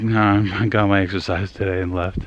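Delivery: talking while winded; breathless from the game; out of breath. Real, not acted. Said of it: "why am I so out of breath".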